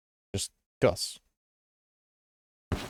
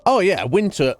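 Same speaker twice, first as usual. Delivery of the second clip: excited; 11 semitones higher, 7 dB louder, slower than usual. Real, not acted. Sudden lively reaction to chat.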